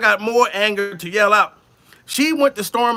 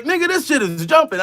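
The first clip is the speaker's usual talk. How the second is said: hyped friends; 8 semitones higher than usual. Retold or imitated. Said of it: "these niggas is like".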